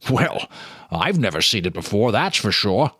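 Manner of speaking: shopkeeper voice. Acted. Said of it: "the shopkeeper said".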